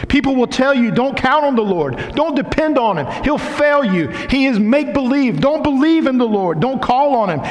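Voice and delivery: high, ringing sermon voice; preaching at full force. Acted. Pastor preaching to his congregation, full force. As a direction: preach it out with fire.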